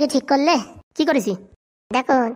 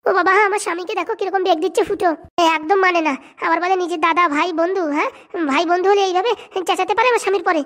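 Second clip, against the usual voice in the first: higher, whining wife protesting; whiny wife; 3 semitones higher than usual. Acted. Wife complaining to her husband about Phuto, high whine. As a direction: play the wife, aggrieved and shrill-pitched high.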